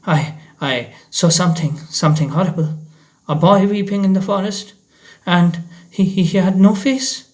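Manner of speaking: breathless, stammering fear; frightened stammer. Acted. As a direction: stutter out the horror. Terrified teacher stammering.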